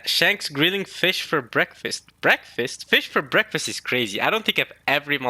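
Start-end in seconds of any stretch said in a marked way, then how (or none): 0.0-2.1 slow, drawn-out reading of the request. Shown as a demonstration. Reading the reader request aloud, slowly. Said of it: "the reader request says". 2.2-3.7 questioning breakfast in disbelief; can't believe it's breakfast; incredulous. Real, not acted. Reacting to fish for breakfast, incredulous.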